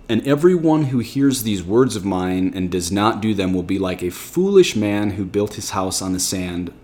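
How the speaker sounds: solemn verse reading; scripture reading. Acted. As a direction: read the verse out with weight. Rereads verse twenty-six.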